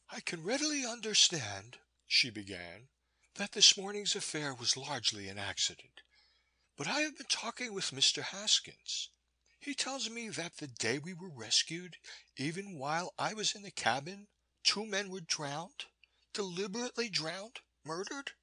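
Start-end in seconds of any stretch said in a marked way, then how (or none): 0.1-1.8 put-on higher, earnest young woman's voice; a worried woman choosing her words; Maud, earnest young woman. A narrator's reading. Woman confronting the narrator, higher and earnest. 3.4-18.3 put-on higher, earnest young woman's voice; a worried woman choosing her words; Maud, earnest young woman. A narrator's reading. Woman confronting the narrator, higher and earnest.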